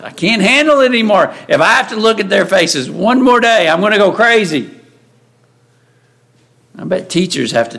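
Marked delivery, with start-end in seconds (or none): 0.0-4.7 higher-pitched, mock fed-up complaint; burnt-out exasperation. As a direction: act like someone at the end of their rope. Acting out a burnt-out worker.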